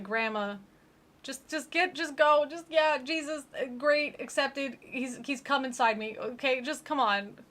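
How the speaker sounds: hammed-up dying girl begging; desperate Ashley. Ashley pleading with grandma to go, hammed-up. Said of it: "She's like".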